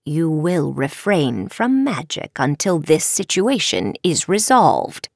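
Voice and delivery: slow, measured ruling; restrained, formal authority; lightly voiced stern professor. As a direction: hand down the punishment deliberately. Professor lays down punishment.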